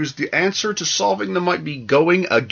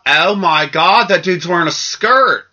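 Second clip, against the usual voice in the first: mock shock; 3 semitones higher, 4 dB louder, slower than usual. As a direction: imitate an appalled passer-by. Mimics shocked passers-by at kilts.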